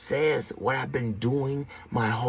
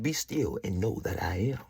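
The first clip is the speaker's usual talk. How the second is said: quoting God; 7 semitones lower, 9 dB quieter than usual. Retold or imitated. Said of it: "He said".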